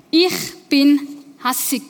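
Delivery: "Ich bin hässig" said slowly and deliberately; name it slowly: "Ich bin hässig"; slow naming. Shown as a demonstration. Preacher models naming the anger to the congregation, slowly. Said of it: "erster Schritt, benennen".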